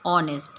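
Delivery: ऑनेस्ट with a clear open O, h dropped; pronounced honest. Shown as a demonstration. Teacher demonstrates ऑनेस्ट beginning with O sound. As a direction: model ऑनेस्ट starting on O. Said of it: "O, this is O".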